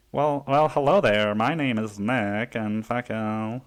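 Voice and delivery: a hint of a smug gentleman introducing himself; silly voice. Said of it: "you know, silly voices".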